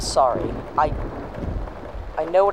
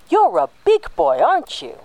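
put-on talking to a baby. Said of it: "spoken to like a baby".

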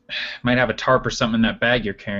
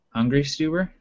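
taunting; 2 semitones higher than usual. Acted. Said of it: "and then go".

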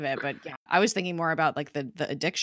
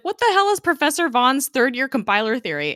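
high, loud mock incredulity; baffled question; 8 semitones higher, 7 dB louder than usual. Coulson questions Gemma after the rescue, mock bafflement. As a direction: imitate a bewildered boss demanding an explanation.

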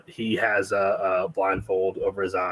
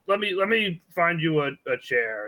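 put-on old man voice; 8 semitones higher than usual. Blind old man looks for chair.

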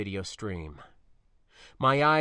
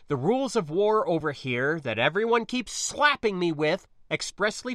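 lightly voiced pilot arguing a case; insistent spacer; 4 semitones higher, 4 dB louder than usual. Spacer justifying freight haulers to niece, insistent. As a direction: explain the plan firmly, a little higher.

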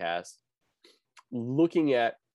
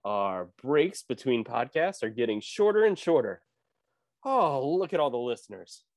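Treasure Planet narrator; 5 semitones higher than usual. Acted. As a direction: announce it like a booming movie narrator. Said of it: "nobody's gonna recognize the narrator from Treasure Planet".

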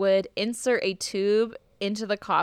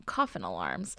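spooky whisper, much lower; 13 semitones lower, 7 dB quieter than usual. Acted. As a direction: hush it like a ghost story.

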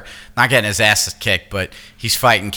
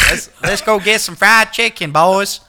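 higher-pitched, put-on Southern twang; Southern accent; 7 semitones higher than usual. Shown as a demonstration. Playing the Turtles if they were in Atlanta, hammed-up Southern accent. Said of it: "I'm trying to do a Southern accent".

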